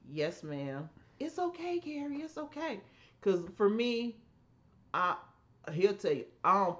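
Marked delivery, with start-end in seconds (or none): 0.1-0.9 soft, meek yes ma'am; a hint of an obedient child; softly like a scolded kid; meek little kid. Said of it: "that little kid like". 1.2-2.8 higher, soft soothing; calm her child down gently; high, soft comforting voice; soothing mom. Retold or imitated. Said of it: "she'd be like".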